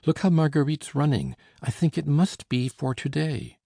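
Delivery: high, fast and eager; excited. A narrator's reading. Narrator tells his uncle the servant is running, excited. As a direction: blurt it out breathlessly with hope.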